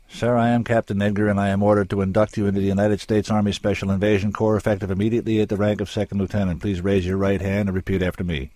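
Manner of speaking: captain reading orders, brisk; official captain. Acted. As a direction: rattle off the induction crisply. Captain formally inducting the scientist.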